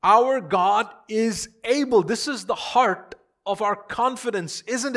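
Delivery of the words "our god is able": loud, high, drawn-out proclamation; emphatic declaration. Acted. Preacher repeating the men's answer to the congregation, emphatic. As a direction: ring it out slowly and forcefully.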